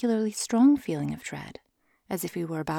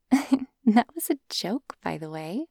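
giggling; 3 semitones higher, slower than usual. Acted. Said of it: "she said, giggling again".

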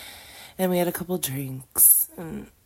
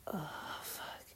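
whispered, aroused gasp; breathy moan; 2 semitones higher, 14 dB quieter than usual. Real, not acted. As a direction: let it slip out breathlessly.

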